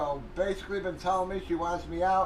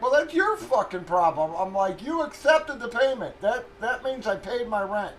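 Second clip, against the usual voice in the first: louder, a touch higher, arguing back; heated retold retort; 4 semitones higher, 6 dB louder than usual. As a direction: lay down the point, worked up. Retold argument with landlord.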